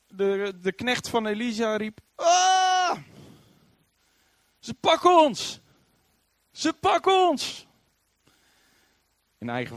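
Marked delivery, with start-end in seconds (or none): 2.2-3.0 sudden high, loud scream of alarm; a servant's startled shriek at the enemy army; panicked cry. Acted. Servant crying out in panic at the army. 4.6-7.7 high, loud and slow terrified cry; panicked. Acted. Servant to Elisha, panicking at the surrounding army.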